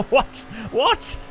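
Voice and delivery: loud, high, rising "what"; baffled disbelief. Real, not acted. Streamer reacting to confusing American with Australian, loudly baffled. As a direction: blurt it out, totally baffled.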